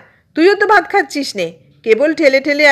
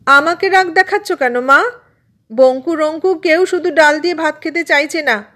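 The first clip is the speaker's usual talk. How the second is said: put-on high-pitched young girl objecting; aggrieved protest; 8 semitones higher than usual. A narrator's reading. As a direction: complain to mother about being blamed. Sister protesting to scolding mother. (মায়ের কাছে নালিশের সুর)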